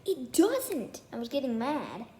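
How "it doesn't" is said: slow, high pouting no; high drawn-out sulky denial; stubborn kid denial. Retold or imitated. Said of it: "he was like".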